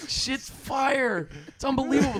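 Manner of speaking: very slow surfer turtle drawl; turtle talk. Pretend. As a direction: stretch every word like Crush. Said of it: "me doing turtle talk with Crush".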